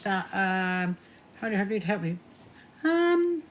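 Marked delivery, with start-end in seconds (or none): 2.8-3.4 startled. Real, not acted. Asked to do something.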